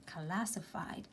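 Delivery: "Classified" said slowly and softly, syllable by syllable: kla-si-faid; slow English demo. Shown as a demonstration. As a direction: spell out "Classified" slowly, ending in a clear "faid". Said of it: "quiero decir que ya cla-, clasifiqué".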